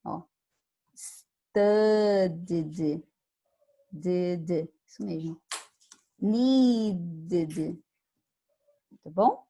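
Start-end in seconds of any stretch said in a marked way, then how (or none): 0.9-3.0 studied with the ending said clearly. Shown as a demonstration. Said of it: "som de I D". 6.2-7.8 needed with its ending said as an extra syllable, ID. Shown as a demonstration. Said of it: "com som de I D".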